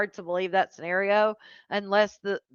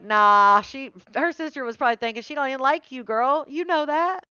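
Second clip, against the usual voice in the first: dismissive sister; 4 semitones higher than usual. Retold or imitated. Guessing what the sister was thinking, mock dismissive. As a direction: voice a sister's scornful thoughts.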